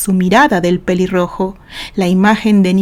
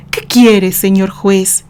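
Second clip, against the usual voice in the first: sarcastic; slower than usual. Acted. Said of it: "contestó socarronamente".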